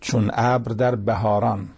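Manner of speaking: slow, measured verse reading; poetry recitation. Acted. Preacher reciting a farewell couplet to listeners, slow poetry recitation. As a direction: recite the couplet slowly, drawing out the words.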